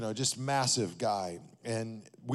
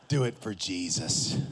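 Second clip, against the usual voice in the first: laughing coach urging; 7 semitones lower than usual. Retold or imitated.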